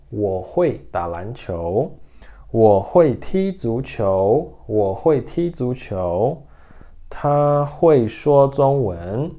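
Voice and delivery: slow, careful Mandarin for repeating; slow pronunciation model for learners; slow pronunciation demo. Shown as a demonstration. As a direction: model each syllable slowly. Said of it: "então vamos lá".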